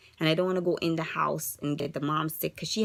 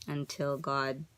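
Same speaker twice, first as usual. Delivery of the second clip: softer, trailing off near tears; fading sadness; 2 semitones lower, 7 dB quieter than usual. Real, not acted. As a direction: let it drain away. Fading into despair.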